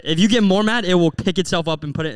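lightly sarcastic, easing back down; sarcastic teasing. Retold or imitated. Son joking with mom about self-cleaning spills, sarcastic. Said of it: "It's so sarcastic".

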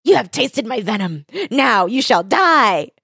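high, triumphant villain crowing; cat-witch gloating over her beaten foe. Acted. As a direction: crow over him like a cackling witch. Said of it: "And he's like".

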